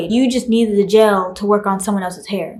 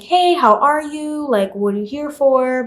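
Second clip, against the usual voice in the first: receptionist greeting; 5 semitones higher than usual. Retold or imitated. Retold receptionist's greeting at the desk.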